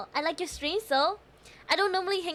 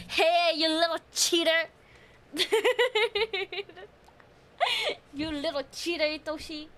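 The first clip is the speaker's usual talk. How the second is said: laughing teasing. Real, not acted.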